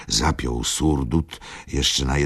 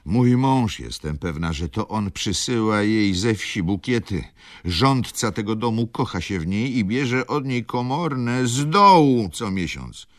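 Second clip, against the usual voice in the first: high, heated tirade; dramatic accusing; 8 semitones higher than usual. A narrator's reading. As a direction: reel off jealous accusations. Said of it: "Dramatyczny głos baronowej". (dramatyczne, wzburzone oskarżanie)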